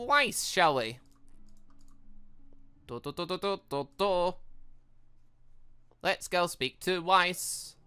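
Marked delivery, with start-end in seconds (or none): none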